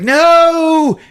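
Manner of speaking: high, loud mock wail; hammed-up cry of protest; Tanya. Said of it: "Tanya's like".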